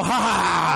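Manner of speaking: gleeful fake evil "ha ha ha"; hammed-up triumphant laugh; mock villain laugh. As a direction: cackle like a cartoon baby thief. Mock villain stealing the baby.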